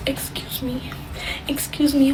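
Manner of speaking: high, soft little voice imitating polite strangers; mock polite request. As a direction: squeeze past timidly, imitating a polite passer-by. Imitates strangers politely asking to pass.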